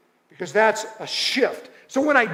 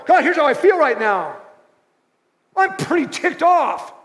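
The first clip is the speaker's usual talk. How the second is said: frustrated prayer; 3 semitones higher, faster than usual. Shown as a demonstration. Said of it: "I would talk to God about how you feel".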